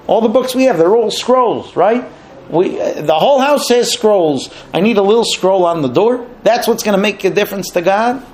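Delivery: mildly mocking, incredulous questions; making fun. Wife belittles the mezuzah to Korach, mocking. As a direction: scoff at the whole idea. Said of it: "starts making fun of the mitzvot".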